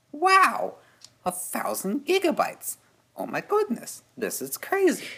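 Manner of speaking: very high-pitched mock-awed child voice; evil scientist kid. Podcaster recalling being amazed by terabyte drives as a kid, high-pitched evil-scientist kid voice. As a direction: imitate an amazed younger self in a squeaky-high put-on voice. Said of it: "Why did you sound like Heinz Doofenshmirtz".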